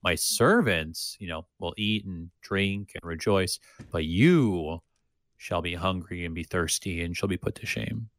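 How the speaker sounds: a solemn reading with stress on "servants" and "you"; emphatic scripture quote. Retold or imitated. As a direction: lean into "you" as the one being judged. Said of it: "very emphatically over and over again".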